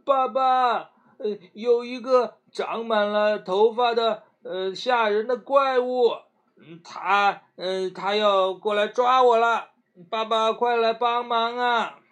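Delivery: high, loud pretend-scared shouting; mock panic shout. A narrator's reading. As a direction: shout for help as if terrified. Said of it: "一边跳一边喊".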